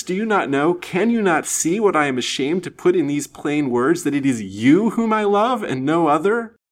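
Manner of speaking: high, loud, fervent declaration; impassioned cry. A narrator's reading. Lady confessing her love to Lance, impassioned cry. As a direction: pour out the confession, building in urgency. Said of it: "she cried".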